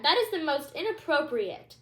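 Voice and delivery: loud, stern royal reprimand; queen scolding a misbehaving princess. Acted. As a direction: order her down at once. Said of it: "she began".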